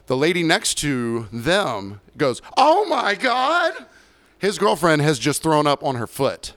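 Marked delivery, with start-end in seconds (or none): 2.6-3.7 shocked gasp. Retold or imitated. Lady reacting to vomit on foot.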